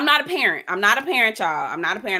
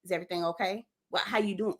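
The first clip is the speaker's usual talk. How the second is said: lightly voiced grandma, softer; checking-up grandma; 2 semitones lower, 7 dB quieter, faster than usual. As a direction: imitate a watchful grandma's quiet questioning. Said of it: "my grandma on me".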